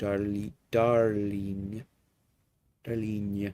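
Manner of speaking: put-on lovely French accent. Speaker telling their lover how they hear them say the word: imitating a french accent. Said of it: "I can hear you say it with your lovely French".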